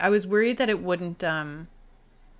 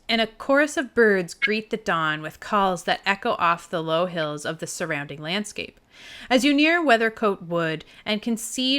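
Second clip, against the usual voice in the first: game narrator setting the scene; game master's read-aloud; story narration. A narrator's reading. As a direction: read the adventure text out with purpose. Reads the game text aloud.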